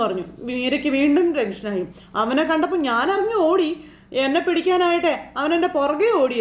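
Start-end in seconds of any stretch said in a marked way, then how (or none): 2.2-6.4 higher, breathless-feeling chase story; excited retelling. Retold or imitated. Beeranikka telling Meera about the chase, mock excited. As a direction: rush it like he's still running.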